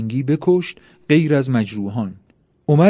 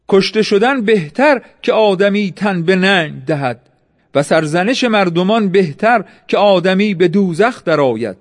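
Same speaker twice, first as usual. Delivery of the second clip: higher-pitched declamation of a warrior's creed; resolute, raised heroic recital; defiant battle cry; 5 semitones higher than usual. A narrator's reading. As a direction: proclaim it proudly as you charge. Defiant battle verse while attacking.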